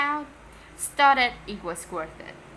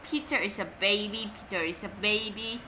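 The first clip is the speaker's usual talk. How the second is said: jeering. Acted. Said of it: "jeered Henry".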